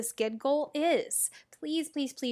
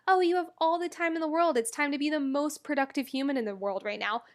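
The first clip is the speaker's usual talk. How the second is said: mocking society; 3 semitones higher than usual. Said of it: "society is telling you".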